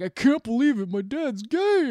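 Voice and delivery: high, mock-distraught outburst; retold upset yelling. Son upset about his dad, retold yelling. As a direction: yell it out in a high imitated voice. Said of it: "yelling it out loud".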